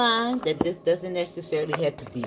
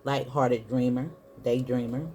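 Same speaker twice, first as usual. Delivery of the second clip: deliberate book reading with breaks between phrases; reading aloud. Acted. Tarot reader reading the Mystic card to viewers, deliberate read-aloud.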